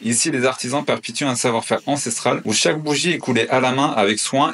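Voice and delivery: steady promotional reading. Real, not acted. Reading the magazine advert aloud, ad read. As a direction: read the ad copy.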